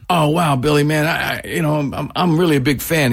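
mildly gushing, halting admiration; acted starstruck fan. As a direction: stumble through telling an idol you're a fan. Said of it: "you say something like".

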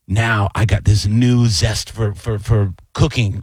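slow, savoring retold wonder; mock-earnest, slow declaration; reawakened cook impression. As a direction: play a cook discovering his calling, drawn out. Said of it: "you could see the joy in his face".

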